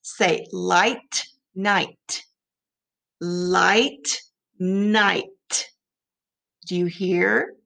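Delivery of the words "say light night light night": slow model words, each one held; choral repeat. Shown as a demonstration. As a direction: say "light" and "night" clearly for the class.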